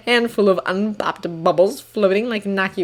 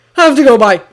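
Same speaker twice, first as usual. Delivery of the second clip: loud, higher-pitched hasty blurt; panicked blurt; 4 semitones higher, 9 dB louder than usual. A narrator's reading. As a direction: blurt it out and flee. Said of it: "then blurts".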